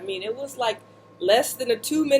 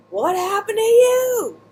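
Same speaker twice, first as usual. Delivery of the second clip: much higher, slow voice of the shocked friend; alarmed friend; 13 semitones higher, 5 dB louder, slower than usual. Retold or imitated. Friend running up, shocked to see her soaked.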